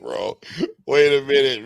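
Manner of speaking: ordinary talk, nothing marked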